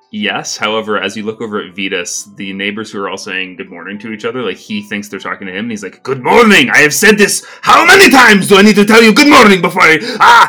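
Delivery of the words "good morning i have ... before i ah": character voice, much higher and louder. A narrator voices Vetus answering the neighbors' greetings: Vetus, frustrated outburst. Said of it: "getting really frustrated".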